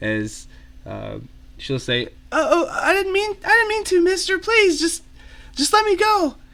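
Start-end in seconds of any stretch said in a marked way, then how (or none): 2.3-6.3 put-on very high-pitched, dainty little girl's voice. Voicing a little girl pleading with a mister: dainty little girl voice. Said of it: "definitely a, a daintier voice there".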